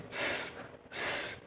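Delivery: bare hissed "S", no vowel; som isolado do S. Shown as a demonstration. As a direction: make two separate "sss" sounds. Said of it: "os sons aqui são iguais". (só o chiado do "S")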